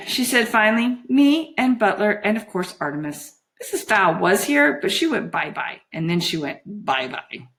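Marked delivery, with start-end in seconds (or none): 1.1-7.5 put-on lightly dazed girlish voice; dreamy, simple-minded report; mesmerised Juliet, vague. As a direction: list them simply, like a child.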